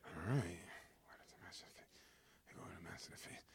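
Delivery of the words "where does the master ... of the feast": fast, unvoiced, soft narration; sneaking whisper. Servants sneak the water to the master, whispering. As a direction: creep along, barely breathing.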